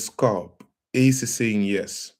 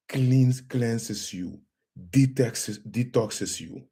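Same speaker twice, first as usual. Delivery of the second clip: hushed healer voice; 5 dB quieter than usual. Acted. Healer quietly asks her viewers what they feel, hushed. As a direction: keep it hushed so the tone can be heard. Softly asks during ringing.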